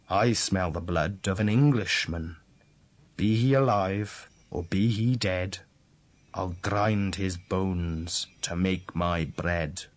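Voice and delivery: lightly voiced ogre, slowing on the last line; ogre threat. Ogre threatens the hidden boy, lightly voiced slow menace. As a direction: menace it out slowly like a storybook ogre. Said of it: "The ogre cried out".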